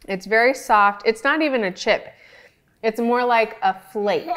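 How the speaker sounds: talking through a mouthful; words round a bite of ice cream; mouth full. Real, not acted. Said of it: "talk with my mouth full".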